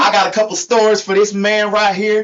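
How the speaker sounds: put-on country accent; storyteller with a mock country twang; Hee Haw Tony. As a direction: imitate your co-host's hillbilly accent. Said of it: "has to sound like me".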